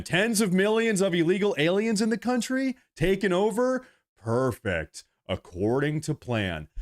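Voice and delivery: lightly voiced smug plotters ticking off the chaos; mocking the schemers. Streamer imitating the people who opened the border, mock gloating. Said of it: "they're sitting there saying".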